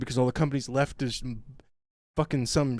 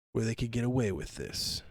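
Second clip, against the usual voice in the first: mock smug Californian; 3 semitones lower, 9 dB quieter than usual. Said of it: "They're like".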